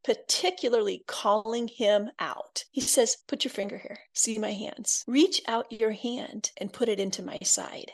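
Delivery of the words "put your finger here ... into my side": hushed and gentle, close to the ear; gentle hushed invitation; soft Jesus voice. Retold or imitated. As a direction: speak it softly, like Jesus inviting Thomas. Jesus speaking gently to Thomas.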